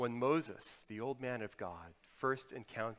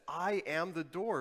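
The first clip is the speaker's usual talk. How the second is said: bold proclamation; 5 semitones higher, 7 dB louder than usual. Acted. Quoting Jesus, pulpit emphasis.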